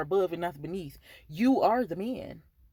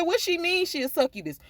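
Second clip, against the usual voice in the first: incredulous question; 9 semitones higher than usual. Retold or imitated. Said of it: "I said".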